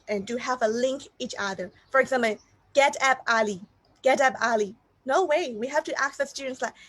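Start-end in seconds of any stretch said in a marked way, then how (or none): 2.7-3.6 "Get up early" with each word kept separate. Shown as a demonstration. Teacher showing how not to teach "Get up early", word by word. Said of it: "instead of teaching like word by word individually". 4.0-4.7 "get up early" as separate, unlinked words. Shown as a demonstration. Teacher demonstrating the wrong way, "get up early" word by word. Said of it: "instead of teaching like word by word individually".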